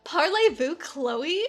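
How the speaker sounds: a light American accent on French words, mocking the dub. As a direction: imitate an American struggling with French, half-laughing. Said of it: "French speaking in an American accent".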